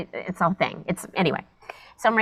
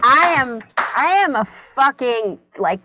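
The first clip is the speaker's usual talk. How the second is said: loud, proud bragging; proud of her croquettes, loud swagger; cocky boast; 2 semitones higher, 5 dB louder than usual. Retold or imitated. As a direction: brag like a kitchen queen. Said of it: "I was like".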